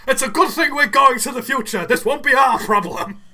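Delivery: hammed-up eccentric inventor, a bit loud; Doc Brown. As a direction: proclaim it like an excitable scientist. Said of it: "He's just like".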